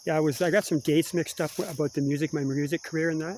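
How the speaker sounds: talking while eating a cookie; mouth full. Real, not acted. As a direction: talk through a mouthful. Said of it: "watch Rick eat".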